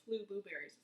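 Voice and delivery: "Flu" with an L slipped in for "few"; tongue-twister slip. Pretend. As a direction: trip on the tongue twister, "Flu" echoing the "blu" in blueberries. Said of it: "Say that five times fast".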